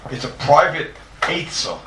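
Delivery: slow, deliberate weight on "private"; stress on private. Shown as a demonstration. Teacher underlining why the check is done, "private" stressed. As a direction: lean hard on "private", drawing the phrase out. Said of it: "I stress the word private".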